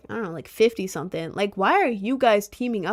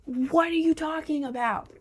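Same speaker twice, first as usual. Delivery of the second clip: plain; 6 semitones higher than usual. Pretend. Echoing the phrase in disbelief.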